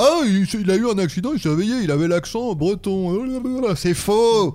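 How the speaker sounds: mock the far-fetched tale, pitch jumping up; mock exclamation. Parodie des histoires de réveil avec accent. (exclamation moqueuse et exagérée)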